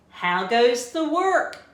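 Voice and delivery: loud, high call; lazy farmer shouting. A narrator's reading. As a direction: call lazily from bed. Teacher voices farmer.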